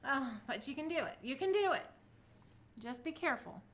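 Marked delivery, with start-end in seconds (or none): 1.2-1.9 higher, louder pep talk to herself; rally yourself, you can do it; upbeat self-encouragement; cheering herself on. Real, not acted. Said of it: "self-encouragement".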